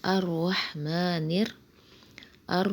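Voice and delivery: ار said with a full, heavy ra. Shown as a demonstration. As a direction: give الرحمن a thick, full-mouthed ra. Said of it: "را کو ہم موٹا پڑھیں گے".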